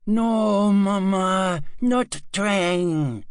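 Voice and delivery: put-on high, loud child's plea; scared child pleading. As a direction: beg mother like a frightened boy. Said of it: "he say".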